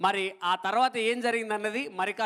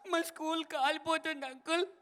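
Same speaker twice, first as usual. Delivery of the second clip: put-on child voice; 6 semitones higher, 5 dB quieter than usual. Child answers uncle in joke.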